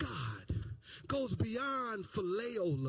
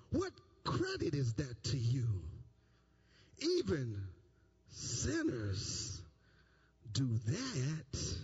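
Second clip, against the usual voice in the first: low solemn reading; 11 semitones lower, slower than usual. Acted. Preacher to congregation, low and slow. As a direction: drop low and slow, weighty pauses.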